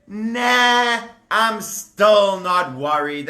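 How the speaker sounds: dismissive. Acted. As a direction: brush it off like nothing matters. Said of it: "So Paro said".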